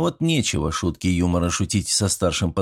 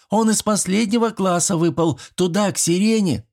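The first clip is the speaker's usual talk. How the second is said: high-pitched schoolgirl call; girl calling out; 11 semitones higher than usual. A narrator's reading. Schoolgirl calls down where the boy fell, high. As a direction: keep the girl's high call going.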